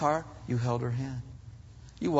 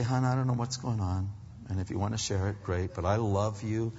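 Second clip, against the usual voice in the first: softer, tender reassurance; gentle comfort; 4 semitones lower, 5 dB quieter than usual. Retold or imitated. Husband comforting his crying wife, softer tender voice. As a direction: comfort her quietly.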